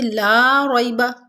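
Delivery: ला रैबा slow, the ai of रैबा soft and quick; soft ya leen. Shown as a demonstration. Teacher demonstrating soft ya leen in ला रैबा. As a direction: recite ला रैबा gently. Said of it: "या लीन को नरमी और जल्दी के साथ".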